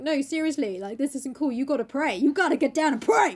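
hammed-up exhortation, rising at the end; urgent Basil. Painter urging Dorian to pray, building urgency.

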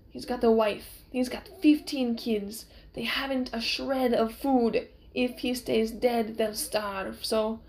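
put-on lightly accented swordsman making up a sob story; slow, earnest pleading; Inigo, pleading. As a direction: plead the case with a slight accent.

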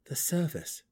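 composed reply, slightly high-pitched; even-tempered dark elf reply; said evenly. A narrator's reading. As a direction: answer calmly and simply. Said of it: "Driz replied evenly".

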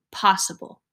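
breathy hushed whisper to herself. A narrator's reading. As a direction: whisper it like a secret hope. Secret hopeful thought to self.

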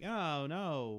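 a hint of a prim young woman; mock coy refusal. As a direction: brush him off lightly. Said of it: "Sam's like".

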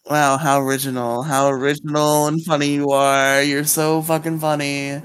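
dry mock praise, deadpan; sarcastic wow. Real, not acted. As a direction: drip sarcasm on every compliment. Teased about Riley body pillow.

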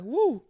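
high-pitched "woo" of relief; relieved woo. Retold or imitated. Acting out relief at delayed flight.

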